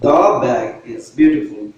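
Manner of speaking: "The bag is beautiful" read very slowly, each word set apart; slow example reading. Shown as a demonstration. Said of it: "But second time যখন বললাম".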